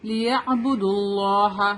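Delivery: اللہ with a full, dark "L"; heavy laam. Shown as a demonstration. Teacher demonstrates joining dal to laam, heavy laam. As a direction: chant لیعبدوا اللہ linked, the laam of اللہ heavy. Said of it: "heavy پڑھیں گے اللہ کے لام کو".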